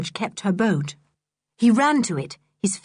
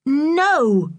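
cross; 7 semitones higher, 5 dB louder than usual. Acted. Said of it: "getting cross".

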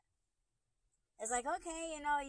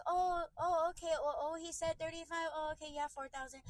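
high, fluttery mock voice stalling with oh, oh; sly, flustered mock of the receptionist; 4 semitones higher than usual. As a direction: imitate her slick backpedaling, higher. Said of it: "this is the slick shit that she tried to do".

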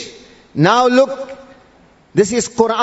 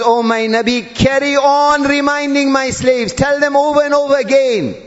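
urgent exhortation; 4 semitones higher than usual. Acted. Preacher voices God charging the Prophet, urgent exhortation. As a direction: press the command home, insistent and high. Voicing God's command to the Prophet.

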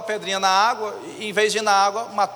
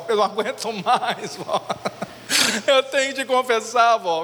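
put-on pleading boy; 2 semitones higher than usual.

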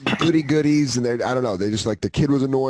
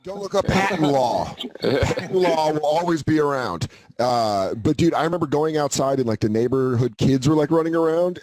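normal talking voice

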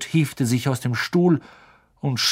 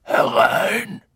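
high loud gruff call; gruff growl; 9 semitones higher, 4 dB louder than usual. A narrator's reading. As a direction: bark it out from inside. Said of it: "eine Stimme knurrte".

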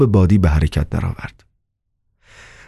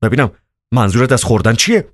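mildly offended, slightly raised pitch; miffed; 4 semitones higher than usual. A narrator's reading. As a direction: question him with a touch of resentment. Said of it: "با دلخوری گفت".

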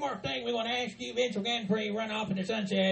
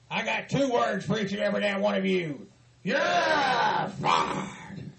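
booming boss bellow; Vince McMahon; slower than usual. Pretend. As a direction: fire everyone like a wrestling boss. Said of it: "please welcome Vince McMahon".

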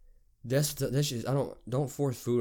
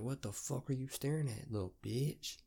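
mock hushed confrontation; 4 semitones higher, 6 dB quieter than usual. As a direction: pretend to whisper an insult, still voiced. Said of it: "You wanna kinda whisper it to 'em".

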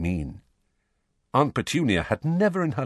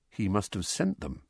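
softer, said mostly to himself; quietly; 7 dB quieter than usual. Acted. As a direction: murmur it, thinking aloud. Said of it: "said Harry quietly".

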